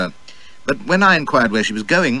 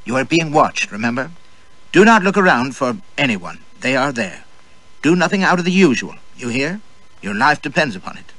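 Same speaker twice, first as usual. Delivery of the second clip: curt orders; 4 semitones higher than usual. Acted. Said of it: "She was scared".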